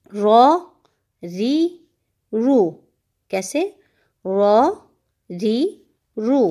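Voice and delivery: रॉ heavy, री light, रू rounded. Shown as a demonstration. Teacher showing heavy and light ra. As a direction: show full and thin ra. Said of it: "रॉ को हम बारीक पढ़ेंगे".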